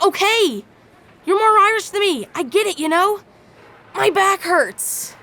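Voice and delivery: high-pitched, exasperated giving in; mock surrender. Wrestler conceding to the Irish guys, exasperated mock plea. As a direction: plead your way out, acting worn down.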